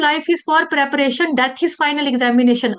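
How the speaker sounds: slow, weighty maxim; slow quotation. Shown as a demonstration. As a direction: drive the motto home slowly. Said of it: "तभी मैं बोल रही हूँ".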